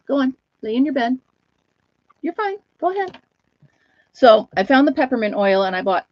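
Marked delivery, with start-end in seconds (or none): 0.1-3.2 coaxing the dog. Real, not acted.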